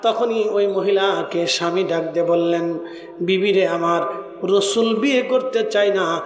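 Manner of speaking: sing-song preaching with long held line endings; melodic sermon storytelling. Acted. Preacher tells a congregation of the Prophet's proposal, melodic sermon storytelling.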